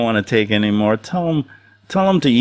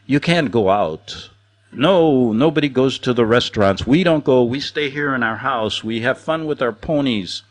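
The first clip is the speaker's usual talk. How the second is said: put-on German accent. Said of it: "with that great German accent going".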